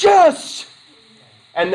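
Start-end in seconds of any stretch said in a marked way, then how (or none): 0.0-0.7 much higher, louder happy yip; excited dog yelp. Pretend. Teacher voicing a dog getting its owner's treat, overjoyed yip. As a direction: squeal it like a thrilled dog. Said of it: "their dogs went".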